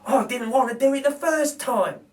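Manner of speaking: lightly voiced reluctant thief; dismayed burglar. Narrator voices Bill after falling off stool, dismayed. Bill's voice in read story.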